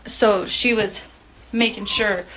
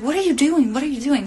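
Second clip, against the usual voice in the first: higher-pitched, acted-out disbelief; retold alarmed questioning; 5 semitones higher than usual. Narrator challenging Melissa as she empties the car, retold alarmed questioning. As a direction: replay your protest, pitch jumping up.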